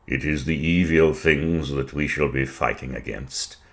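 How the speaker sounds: put-on weary, subdued old Victorian; disheartened statesman. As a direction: let the resolve sag under the weight of it. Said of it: "Thus spake a disheartened Victorian".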